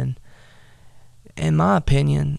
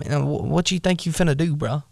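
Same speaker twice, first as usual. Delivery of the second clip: fast, pitched-up taunt; street-talk brother; 2 semitones higher than usual. Retold or imitated. Big brother taunting David in modern slang, fast and cocky. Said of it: "I'm just gonna say it like I would".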